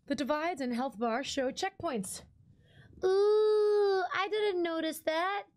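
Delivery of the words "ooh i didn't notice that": surprised. Real, not acted. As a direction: react with delighted surprise. Noticing game feature.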